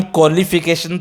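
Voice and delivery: क्वालिफिकेशन as "kolification", plain K; acceptable pronunciation. Shown as a demonstration. Teacher allowing a minimum fix, क्वालिफिकेशन as "kolification". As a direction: drop the W from क्वालिफिकेशन, "ko" first. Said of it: "क्वा तो बिल्कुल नहीं होगा".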